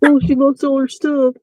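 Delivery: mocking repeat. Shown as a demonstration. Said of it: "how did you say it".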